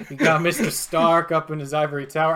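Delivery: put-on unhurried New York accent; casual bartender with a New York lilt; New Yorker bartender. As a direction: chat like a local New York barman. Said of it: "this guy's turned into a New Yorker".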